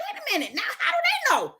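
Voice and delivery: questioning God, high and bewildered; baffled question. Pretend. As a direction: stop short, puzzled.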